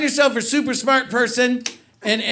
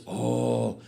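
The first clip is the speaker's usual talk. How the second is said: mock Asian accent; 9 semitones lower, 4 dB quieter, slower than usual. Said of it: "He goes".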